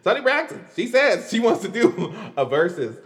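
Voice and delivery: mock radio host announcement, breaking into a laugh; playful radio host voice.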